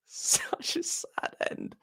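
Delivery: a very high, breathless, laughing mock whimper. Shown as a demonstration. Fan mocking his own grief after the defeat, in a mock whimper. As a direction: whimper it as if pretending to cry.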